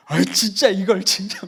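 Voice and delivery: acted exasperation; angry grumbling. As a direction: imitate dad fuming while cleaning up. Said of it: "화가 나가지고 막 아빠가".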